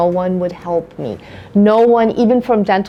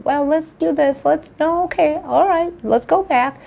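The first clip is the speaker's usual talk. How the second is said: higher, lightly voiced clinician talk; imitating careful clinicians; 7 semitones higher than usual. Patient quoting the adorable team at work, imitating careful clinicians. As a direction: lightly act out clinicians feeling their way.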